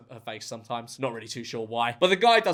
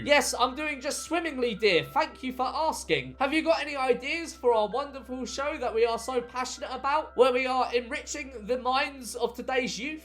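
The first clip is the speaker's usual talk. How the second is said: high, airy posh wife voice; breathy vintage purr; 5 semitones higher than usual. Retold or imitated. Imagined couple pitching ideas.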